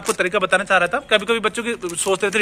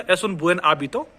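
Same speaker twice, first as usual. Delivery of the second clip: slow, separated "Es un buen hábito"; each word apart, buen then hábito; slow speech; much slower than usual. Shown as a demonstration. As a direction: say it slowly, word by word. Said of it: "अगर मैं धीरे-धीरे बोलूंगा".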